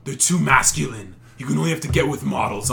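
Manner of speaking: loud drawling Toronto bro; Toronto slang voice. Retold or imitated. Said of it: "this one guy's like".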